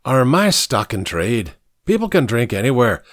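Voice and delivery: lightly voiced Irish barman; a touch of Irish brogue; Irish accent. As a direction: say it with an Irish lilt. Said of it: "his Irish accent".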